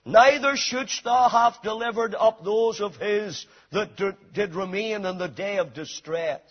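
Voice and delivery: measured, weighty Bible reading to the congregation; solemn scripture reading. Acted. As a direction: read the prophecy with gravity. Preacher reads scripture aloud.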